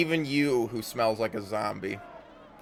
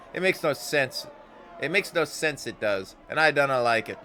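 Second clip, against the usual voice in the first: louder, quicker Scots-tinged puzzlement; bewildered at herself; confused Anna; 4 semitones higher, 5 dB louder than usual. Acted. Anna unsettled.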